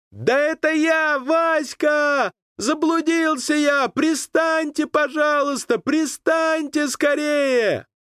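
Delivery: high, slow shouting across the water; pleading shout. A narrator's reading. Lost boy begging the boat crew to land, shouting. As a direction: beg them to land, all in.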